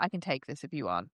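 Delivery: quiet, quick helpful murmur; soft offer. Retold or imitated. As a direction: murmur it gently under the table. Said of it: "he's like".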